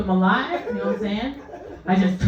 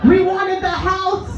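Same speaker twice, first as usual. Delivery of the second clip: slightly put-on, slow, higher-pitched complaint; complaining family member; 6 semitones higher, slower than usual. Family member to nurse about Grandpa coming home, mock disappointed. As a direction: lightly voice a disappointed relative, pitch climbing. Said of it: "They're like".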